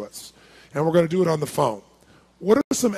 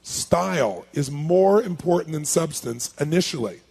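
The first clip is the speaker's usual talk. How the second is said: slow, measured repeat for note-takers; slow dictation; slower than usual. Shown as a demonstration. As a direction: dictate it slowly, word by word. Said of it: "Write this in your notes".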